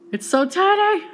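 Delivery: high, loud delighted squeal. Real, not acted. Vlogger showing the tiny toy, squealing in delight. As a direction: squeal at how small it is.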